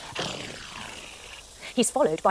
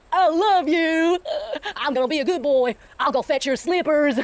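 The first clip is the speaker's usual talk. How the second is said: slow, doting puppy voice; sweet, drawn-out puppy love; happy dog voice; 4 semitones higher, 3 dB louder, slower than usual. Acted. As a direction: gush like a devoted dog. Coyote now a happy dog.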